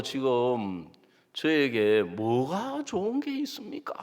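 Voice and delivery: mock angry complaint. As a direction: dare God to answer. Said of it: "화가 나는 거예요".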